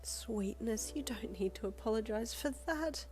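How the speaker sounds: high, tender, gentle chiding; lightly chiding. A narrator's reading. Woman comforting a crying friend, lightly chiding. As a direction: chide affectionately, keeping it light. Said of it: "she chided lightly with a chuckle".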